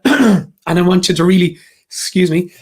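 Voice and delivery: catching, husky throat; frog in throat. Real, not acted. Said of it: "Sorry, frog in my throat".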